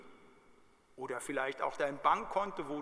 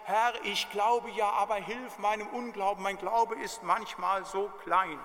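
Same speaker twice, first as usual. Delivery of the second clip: pleading cry; 3 semitones higher than usual. Shown as a demonstration. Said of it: "und zwar genau diesen Schrei".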